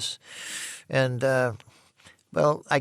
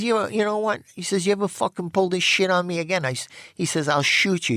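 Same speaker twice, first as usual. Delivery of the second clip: retold threat; 6 semitones higher than usual. Charlie threatening him.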